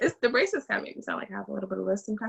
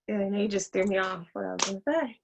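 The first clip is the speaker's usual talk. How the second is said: ordinary delivery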